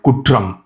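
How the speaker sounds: "kutram" with a hard, rolled R; hard Tamil R. Shown as a demonstration. Teacher showing the hard R in Tamil, rolled R in "kutram". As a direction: roll the R firmly in "kutram". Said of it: "In Tamil, it's more like".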